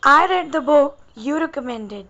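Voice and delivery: very slow dictation pace, each word apart; slow teacher dictation; slow example read. Shown as a demonstration. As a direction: read "I read the book you recommended" slowly for the class. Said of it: "जैसे example है".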